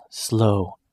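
low, slow inner chant; calming mantra. A narrator's reading. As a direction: talk yourself down, slowly. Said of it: "He is thinking".

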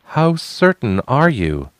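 defiant. Acted. Defiant challenge.

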